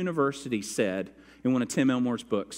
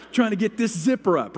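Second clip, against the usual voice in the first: frantic; 7 semitones higher, 6 dB louder than usual. Retold or imitated. Retelling frantic struggle.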